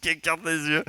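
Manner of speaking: laughing through words. Real, not acted. GM laughs at player.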